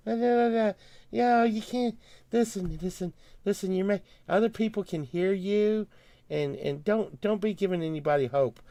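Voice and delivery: lightly voiced shifty official hushing him; mimicking officials. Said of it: "they were like".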